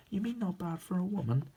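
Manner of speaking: high-pitched, affronted question; indignant retort. Acted. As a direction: throw it back as an accusation. Woman takes offence at faint praise.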